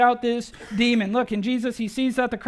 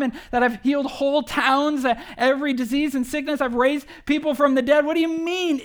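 higher and louder, mock disbelief as Jesus; incredulous Jesus; 4 semitones higher, 4 dB louder than usual. Jesus amazed the father doubts his power, incredulous and louder. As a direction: build up the list in amazed disbelief. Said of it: "But he's like".

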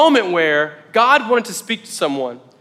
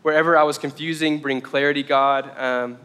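prayer; 3 semitones lower than usual. Real, not acted. Closes with a spoken prayer.

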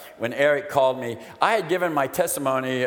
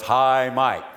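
loud drawn-out mock chorus; group greeting; 5 dB louder than usual. Recovery meeting answers a newcomer, mock group greeting. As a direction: greet like a whole meeting in unison. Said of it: "and everybody goes".

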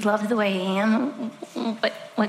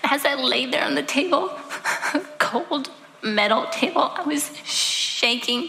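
emotional telling; 2 semitones higher than usual. Real, not acted. Reliving abortion, emotion rising.

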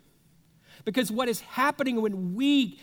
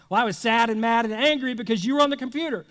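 defensive comeback; 3 dB louder, faster than usual. Retold or imitated. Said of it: "the crazy cycle begins".

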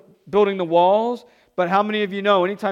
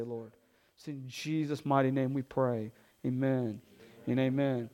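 prayer; 3 semitones lower than usual. Real, not acted. Pastor prays before sermon.

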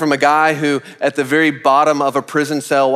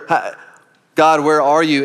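acted cry to God, louder and higher; wondering plea; 4 semitones higher, 5 dB louder than usual. Believers wondering where God is, voiced as a raised plea. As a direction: call out as if searching for someone. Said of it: "I think sometimes we wonder".

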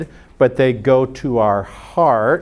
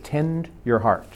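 softer, settled repeat; quiet restatement; 6 dB quieter than usual. Shown as a demonstration. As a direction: let it land gently. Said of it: "Okay, he said".

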